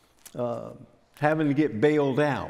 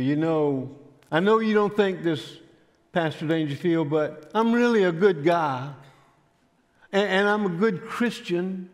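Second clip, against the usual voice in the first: imitated pleading, pitched higher; earnest self-justifying; 4 semitones higher than usual. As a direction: make your case like a mock-earnest scoundrel. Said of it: "make his case that he was a good Christian".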